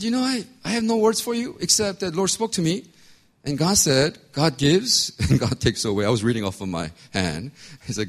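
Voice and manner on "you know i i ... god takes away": much higher, louder preacher's proclamation; proclaiming. Retold or imitated. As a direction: announce it to the church with full force. Proclaiming word before the church.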